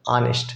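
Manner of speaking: ऑनेस्ट starting on a clean vowel, no h at all; honest, silent h. Shown as a demonstration. Teacher repeats ऑनेस्ट for students, silent h. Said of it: "ऑनेस्ट pronunciation अ वाला".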